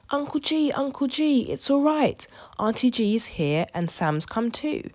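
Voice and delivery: loud, high call across water. A narrator's reading. George calling to Uncle G on the speedboat, loud call. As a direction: call out to the boat. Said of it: "George waved and called".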